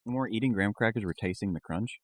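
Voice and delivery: chewing while talking with mouth full. Real, not acted. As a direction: talk around a mouthful of food. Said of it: "Let me speak with my mouth full real quick".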